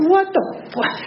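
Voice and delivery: a blurted, wide-eyed what-the; mock startled shout. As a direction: pitch leaps way up on a startled curse. Sees girl duck down, laughing.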